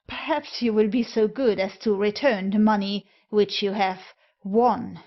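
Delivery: a pointed stress on won. A narrator's reading. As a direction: lean hard on won. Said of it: "He laid a wholly unmistakable accent upon "won".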